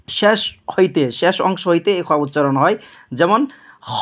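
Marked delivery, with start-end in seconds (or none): 3.9-3.9 "খ" as a heavy, rasped khaw; thick, rounded "খ"; thick throat letter. Shown as a demonstration. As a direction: say "খ" full from the top of the throat. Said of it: "মোটা".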